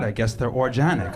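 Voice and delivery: "organic" said as "or-janic"; conceding soft G. Acted. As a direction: give in and say "organic" with a j sound. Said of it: "she said it".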